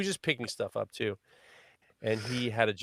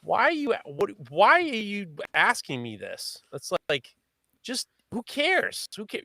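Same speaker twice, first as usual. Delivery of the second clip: much higher, slow, incredulous; baffled squeak; 11 semitones higher, 4 dB louder than usual. Retold or imitated. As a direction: squeak it out in disbelief. Retold baffled reply, squeaky high.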